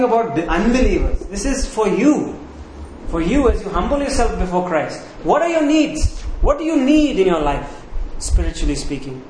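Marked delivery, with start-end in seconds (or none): 5.2-9.2 impassioned appeal. Real, not acted. Preacher appeals to congregation.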